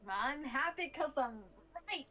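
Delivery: put-on drunk voice. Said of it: "still trying to be in character".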